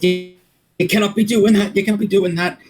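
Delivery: high, protesting beggar's voice; put-on high, beseeching voice; pitiful pleading. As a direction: plead with the captain in mock dismay. Acted begging of the captain.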